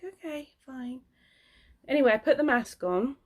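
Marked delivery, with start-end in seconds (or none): 0.0-1.0 grudging okay. Retold or imitated. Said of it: "So I was like".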